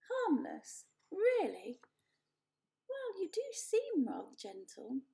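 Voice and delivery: theatrical little animal, proud; lively opossum voice. Acted. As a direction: play a vain animal actor. Opossum wary.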